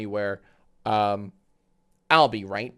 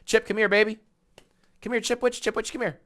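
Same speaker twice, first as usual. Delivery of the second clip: calling the dog; 11 semitones higher, 4 dB louder, faster than usual. Real, not acted. Owner calling the dog in high baby talk. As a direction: coax the little dog over in a high sing-song.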